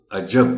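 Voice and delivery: عجب said aj-JAB, second syllable stronger; stress on jeem. Shown as a demonstration. Teacher giving the right عجب, weight on the j. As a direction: lean on the ج of عجب. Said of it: "کہنا پڑے گا".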